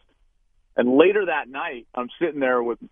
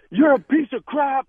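retold angry outburst; 13 semitones higher than usual. Quarterback laying into the Texas captain, high angry retold insult. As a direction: spit out the insult in a replayed rage. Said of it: "laying into him".

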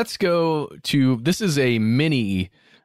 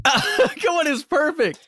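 laughing; 14 semitones higher, slower than usual. Real, not acted. Laughing protest after voicemail.

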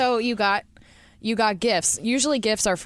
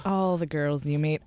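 put-on British accent; 3 semitones lower than usual. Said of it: "a lot of British accent".

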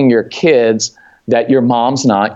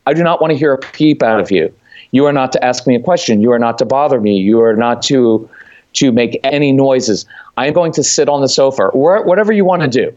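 put-on firm to the kids. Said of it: "So I like to tell the kids".

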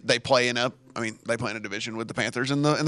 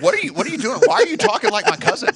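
high, loud mocking of a puzzled Southerner; 4 dB louder, faster than usual. Host mimicking cohost's puzzled reaction, high mock voice. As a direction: ham up his baffled reply. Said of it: "He's like".

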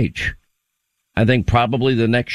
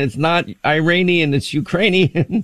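correcting Joe; 6 semitones higher than usual. Retold or imitated. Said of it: "She's like".

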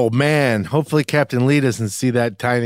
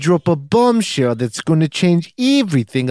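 put-on New Zealand accent; 3 semitones higher than usual. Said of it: "I still got it".

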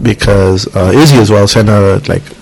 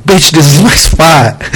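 slow, higher-pitched indignant retort; mock angry driver; 5 semitones higher, slower than usual. Driver to a woman over his parking spot, mock angry. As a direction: spell it out like an irate driver.

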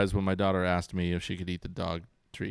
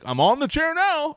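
put-on much higher, louder sing-song kid voice; imitating smug son; 7 dB louder than usual. Son perched on the chair back, high cheeky kid voice. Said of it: "be like".

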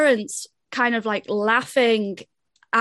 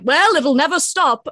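batty grandpa, swooping up on "Well"; hammed-up eccentric old man impression; insane grandpa voice; 4 semitones higher, 4 dB louder than usual. Cohost quoting grandpa once the car starts, insane grandpa voice. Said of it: "who speaks like that".

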